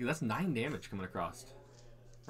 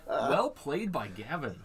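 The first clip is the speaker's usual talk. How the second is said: slow; 3 semitones higher, much slower than usual. Real, not acted. Stunned praise after upset win.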